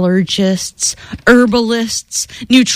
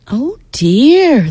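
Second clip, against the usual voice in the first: sadly; 3 semitones higher than usual. Acted. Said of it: "the woman said sadly".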